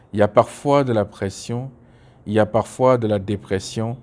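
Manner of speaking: measured poetry reading, each refrain lifted; poem recitation. Acted. Poet reading a favourite poem on women's hidden pain, measured recitation. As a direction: recite line by line with firm openings and pauses between verses.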